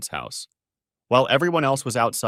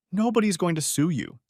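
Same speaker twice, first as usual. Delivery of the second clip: smirking; 7 semitones higher than usual. A narrator's reading. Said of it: "she said with an annoying smirk".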